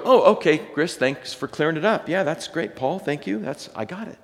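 hammed-up sarcastic thanks, fading out; mock thanks. An imagined reader thanking the writers, mild mock sarcasm. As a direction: pretend to get it, lightly sarcastic. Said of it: "You might read this verse and go".

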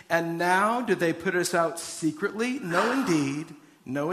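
lifted, steady reading voice to the congregation; scripture reading. Acted. Pastor reads Acts to the congregation, lifted reading voice. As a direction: read the verses out with lift, like from the pulpit.

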